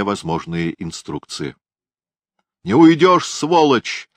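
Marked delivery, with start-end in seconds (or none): 2.6-4.1 high loud action-hero yell; movie-style shout. A narrator's reading. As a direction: bark it like a film hero. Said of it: "совершенно кинематографическую фразу".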